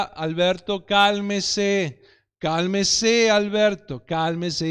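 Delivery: put-on a father keeping his cool with a screaming child; calm repeated plea. Father pleading with his son in the supermarket, patient and steady. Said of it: "lo único que decía era".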